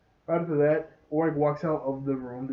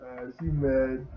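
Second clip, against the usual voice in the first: slow uh-oh; slower than usual. Retold or imitated. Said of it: "Ollie's like".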